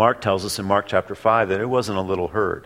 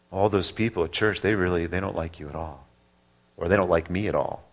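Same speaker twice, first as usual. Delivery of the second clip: whispering doubts; 2 semitones lower, 3 dB quieter than usual. Retold or imitated. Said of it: "Demons might say to you".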